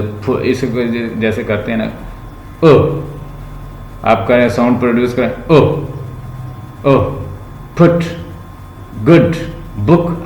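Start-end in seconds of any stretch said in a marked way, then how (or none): 5.5-10.2 गुड, बुक with a short clipped oo; teacher modelling the short vowel. Shown as a demonstration. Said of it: "अब ये short है".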